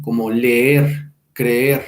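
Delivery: slow "leer, creer" with both Es held as one long vowel; long double vowel. Shown as a demonstration. Teacher showing students how Latin long vowels sounded, double E held in "leer, creer". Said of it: "una A larga sería como una A doble".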